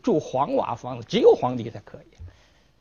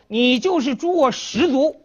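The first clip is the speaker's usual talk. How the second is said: higher, louder defiant cry; defiant shout; 9 semitones higher, 5 dB louder than usual. Acted. Scholar defying the emperor to his face, a loud higher shout. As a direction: throw the threat right back.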